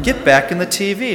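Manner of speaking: high, loud mock shoo; shooing it back. Viewer yelling back at the TV character, mock alarm. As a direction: shove it back into the screen with a yelp. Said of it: "And you're like".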